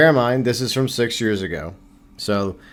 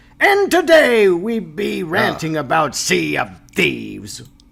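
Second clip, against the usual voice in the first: put-on pirate voice, pitched up, swooping; 7 semitones higher than usual. Speaker opening a rant, in a put-on pirate voice. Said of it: "I'm going with my pirate voice".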